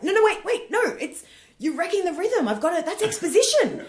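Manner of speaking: high, loud flustered protest; hammed-up frustrated objection. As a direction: cut in as an exasperated comic losing control. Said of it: "get frustrated 'cause they're like".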